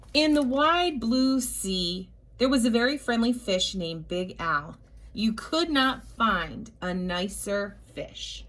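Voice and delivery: lightly voiced picture book narration; storybook reading. A narrator's reading. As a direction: read it like bedtime story time.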